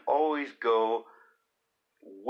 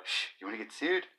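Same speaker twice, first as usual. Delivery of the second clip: hushed warning; 6 dB quieter, faster than usual. Retold or imitated.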